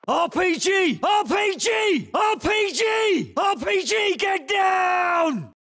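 slow, stretched alarm shout; drawn-out battlefield warning cry; urgent warning shout. Acted. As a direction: yell the RPG warning to the squad. Warning squad of incoming RPG.

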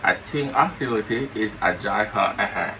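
talking with mouth held open; words through a propped-open mouth. Pretend. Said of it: "you say you're not pronounce good".

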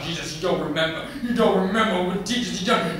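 high, loud, worked-up ranting; exasperated self-talk. Acted. Daddy complains to Jesus about his child, exasperated and loud. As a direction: build the complaint toward a shout. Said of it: "he started muttering to himself".

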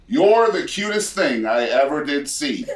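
hammed-up host reading lyrics with a chuckle; mock game show host. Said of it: "in a game show voice".

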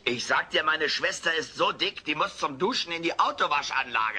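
lightly voiced stand-up punchline; comedian routine. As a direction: deliver it like a stand-up joke. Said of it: "Wer ist denn der Komiker?". (leicht gespielter Komiker-Witz)

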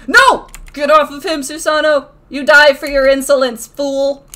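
hammed-up shout at a foe; mock-grand threat. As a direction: play the outraged avenger, loudly. Mock-grand threat to game enemy.

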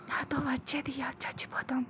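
eerie whispered threat; a psycho whispering death to Diya. Acted. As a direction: breathe it into her ear. Kidnapper's menacing final words.

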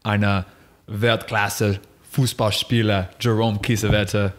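slow, deliberate German, like opening a show; welcoming listeners in slow German; mock German podcast intro. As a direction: announce the guest in careful German, slowly. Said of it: "all I could think was".

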